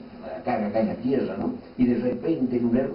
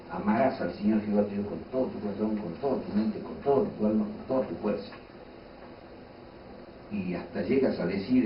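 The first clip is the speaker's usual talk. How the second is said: mock complaint; 4 semitones lower, 3 dB quieter than usual. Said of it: "Y yo me molesto y digo".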